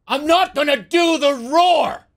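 high, loud, drawn-out yell; mock scream. Storyteller standing in for the screaming lady, mock scream. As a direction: holler it slowly, pitch way up. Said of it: "And she just screams".

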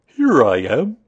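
loud, growly bear voice. A narrator's reading. Pooh answers from behind Christopher Robin, loud growly voice. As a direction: announce yourself as a growly bear. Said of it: "said a growly voice behind him".

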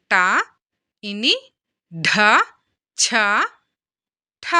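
ట, ఇని, ఢ, ఛ, ఠ singly with pauses; careful pronunciation drill. Shown as a demonstration. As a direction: recite ట, ఇని, ఢ, ఛ, ఠ, aspirating ఢ, ఛ and ఠ. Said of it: "ఎలా పలుకుతున్నాము అనే దాని మీద".

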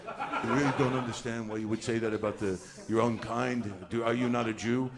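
lightly put-on Hasidic accent, pleading; a touch of Hasidic accent, puzzled reproach; mock Hasidic Jewish accent. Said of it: "how are you even writing in this accent".

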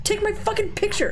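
high shouted demand; demanding yell. Real, not acted. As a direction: bark it at the photographer. Demanding a photo.

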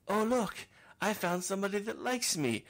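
high, loud giddy squeal of joy; hammed-up thrilled voice; mock delighted. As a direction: play it like a kid who found a treat. Mock excited self finding love.

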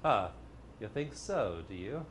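quietly mock the speaker's hope; doubting inner voice. Shown as a demonstration. Tail ender doubting the affirmation, soft sneer. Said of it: "that little voice at the end saying".

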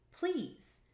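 desperate high-pitched appeal; pleading. A narrator's reading. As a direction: beg him to stay. Desperate plea to departing customer.

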